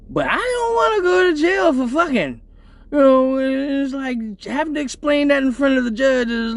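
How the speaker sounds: hint of a panicked defendant; mock alarm.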